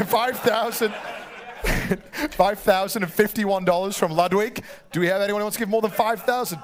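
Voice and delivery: running the bidding like a lightly played auctioneer. Host taking bids from the room and online, in a mock auctioneer voice. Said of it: "He's got a great voice".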